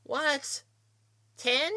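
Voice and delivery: very high, loud shriek of disbelief; almost screamed. A narrator's reading. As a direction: shriek it in shock at the price. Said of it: "I almost screamed it".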